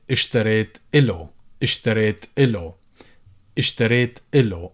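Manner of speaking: full alif, اشتريت إله with a clear إله; full form with alif. Shown as a demonstration. Teacher demos the full form for students. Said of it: "So people would say".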